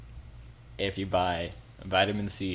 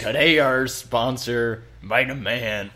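pirate voice; 2 semitones higher, 5 dB louder than usual. Pretend. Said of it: "I can't do this voice".

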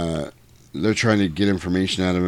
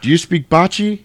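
droid buyer; 9 semitones higher, 5 dB louder than usual. Retold or imitated. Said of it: "they're like".

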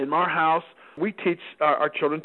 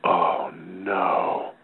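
mock dismay; 10 semitones lower than usual. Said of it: "He goes".

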